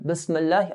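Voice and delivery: Bismillah with the mim clipped, no vowel; wrong sukoon. Shown as a demonstration. Teacher demonstrates the mistaken Bismillah. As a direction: drop the i after m in Bismillah. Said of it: "putting a sukoon on the mim".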